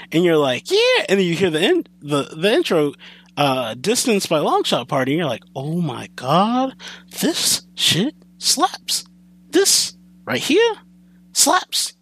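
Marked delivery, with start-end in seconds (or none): 0.7-1.1 much higher, slow, squealing joy; overjoyed fan. Retold or imitated. Fan hearing Naruto is coming back, squealing with joy. 5.5-11.9 slow, drawn-out hype climbing much higher; awed hype. Retold or imitated. Fan hearing a song's intro, slow awed hype.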